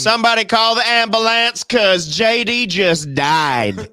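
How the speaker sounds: high, loud cry for help; over-the-top pretend alarm; mock panicked shout. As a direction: holler like a hammed-up emergency. Mock emergency over dead listener.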